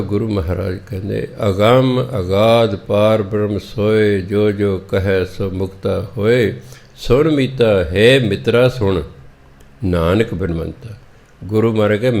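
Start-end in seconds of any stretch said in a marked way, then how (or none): 1.5-10.9 slow, measured chant of the sacred verse; scripture recitation. Acted. Preacher reciting the Gurbani verse to the congregation, slow and reverent. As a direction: intone the verse slowly and reverently.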